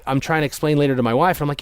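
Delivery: ordinary talk, nothing marked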